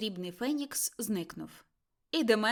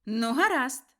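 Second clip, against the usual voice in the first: voice of death; 3 semitones higher, 8 dB louder than usual. A narrator's reading. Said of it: "сказав голос смерті".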